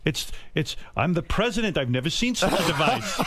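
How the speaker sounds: baffled old-time president, mock grand; Lincoln. Host mocks an actor staying in character, baffled Lincoln. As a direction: play a president puzzled by a modern gadget. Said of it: "walking around all day as Lincoln".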